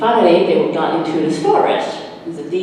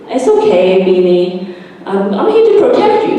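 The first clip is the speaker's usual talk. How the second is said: louder, brave little hero voice; brave reassurance; 3 semitones higher, 5 dB louder than usual. Acted. Sammy bravely comforting frightened Beanie. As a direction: puff up and protect.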